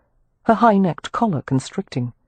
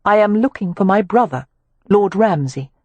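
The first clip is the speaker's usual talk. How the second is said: raised, determined lady; dogged Amelia; 4 semitones higher than usual. Acted. Amelia pressing Rowan about her brother, doggedly. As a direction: press on, stubborn. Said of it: "she continued doggedly".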